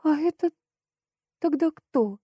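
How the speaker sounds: high, scared question; frightened gasp. Acted. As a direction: squeak it out in fright. Seeing the dead master.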